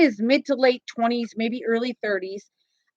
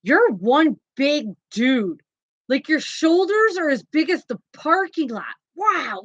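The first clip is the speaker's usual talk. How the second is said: awed stranger; 3 semitones higher, slower than usual. Retold or imitated. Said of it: "He goes".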